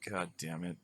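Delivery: very low, soft muttered curse; under his breath. Retold or imitated. Son sent to shovel dog mess, muttering under his breath. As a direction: grumble it so Dad can't hear. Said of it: "under my breath".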